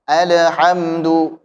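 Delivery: "Alhamdu" very slow, lam held without bounce. Shown as a demonstration. Teacher shows beginners the lam, slow held "Alhamdu". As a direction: stretch "Alhamdu", resting on the l. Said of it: "jangan sampai memantulkannya".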